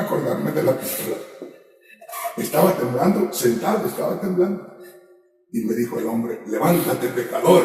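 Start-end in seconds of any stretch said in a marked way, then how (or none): 6.5-7.6 grito imitado. Retold or imitated. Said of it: "me dijo, pero con un grito".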